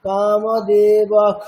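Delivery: কামদেবক chanted slowly on its own, with the ending as a full aspirated খ; slow standalone chant of কামদেবক with full kha; said separately, full kha. Shown as a demonstration. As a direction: stretch out কামদেবক alone and finish on a clear, full খ. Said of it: "যদি আপনাকে আলাদা করে বলা হয় তখন পারবেন".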